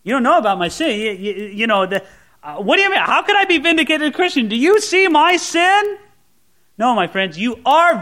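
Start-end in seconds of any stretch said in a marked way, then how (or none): 0.0-6.0 doubting sinner's protest. Retold or imitated.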